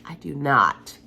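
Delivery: sick, close to a coughing fit; sick voice fading near a cough. Real, not acted. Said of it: "I feel like I need to have a coughing fit".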